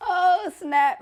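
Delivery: real laughing surprise; laughing exclamation. Real, not acted. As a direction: blurt it through a laugh. Laughing shock.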